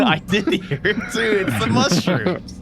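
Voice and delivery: laughing high and loud; giggling through the words. Real, not acted. Laughs while saying it.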